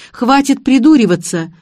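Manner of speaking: indignant. A narrator's reading. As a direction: cut him off in outrage. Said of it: "возмутилась я".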